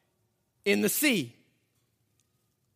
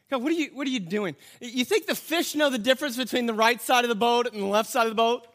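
exasperated. Retold or imitated.

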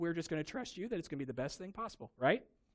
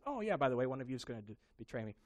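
mock calm Bond cool; 3 semitones lower, faster than usual. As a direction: coolly toss off the betrayal news. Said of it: "very calmly looks them in the eye".

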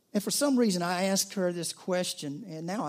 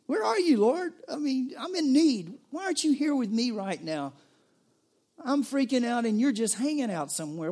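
high, loud, desperate pleading to God; anguished prayer; 6 semitones higher, 5 dB louder than usual. Pretend. The worried believer begs the absent Lord, high desperate pleading. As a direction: cry out like someone abandoned in need.

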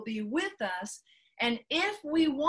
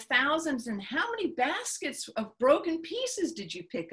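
Jesus gently rebuking. Retold or imitated. Jesus rebuking his disciples.

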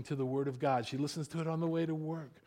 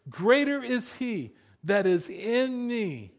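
preaching declaration. Acted. Declares scripture promises.

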